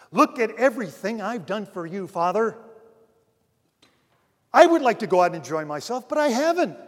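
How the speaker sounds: a lightly voiced resentful son; aggrieved complaint. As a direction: vent the grievance at the father. Older son complaining to father.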